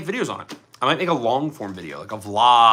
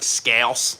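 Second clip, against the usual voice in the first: "Scouse" in a Philadelphia accent; Philly-accented scouse. Shown as a demonstration. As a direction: say "Scouse" with a twanged Philly vowel. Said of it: "I'm over here like".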